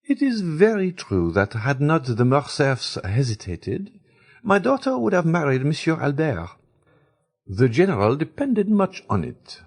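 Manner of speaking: a simple society mother, relieved; Baroness speaking. A narrator's reading. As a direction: Baroness to the ladies, lightly voiced and relieved. Baroness voiced in the story.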